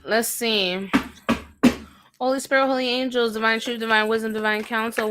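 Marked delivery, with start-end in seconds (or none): 2.2-5.1 quick murmured invocation; prayer. Acted. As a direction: rattle off a familiar prayer.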